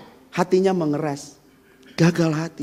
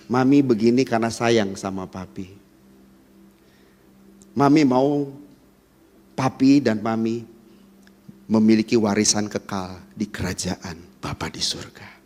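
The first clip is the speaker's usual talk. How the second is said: gentle wife's appeal; 7 semitones lower, 5 dB quieter than usual. Shown as a demonstration. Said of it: "Gitu ngomongnya".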